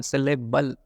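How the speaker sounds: सिलेबल spelt out clearly, ending in L; careful pronunciation. Shown as a demonstration. Teacher correcting a possible mishearing, सिलेबल pronounced carefully with final L. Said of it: "सिलेबस नहीं बोल रहा हूँ मैं".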